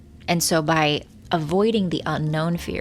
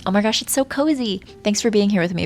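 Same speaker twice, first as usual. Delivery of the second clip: delighted; 4 semitones higher, 4 dB louder than usual. Real, not acted. Cozy in the storm.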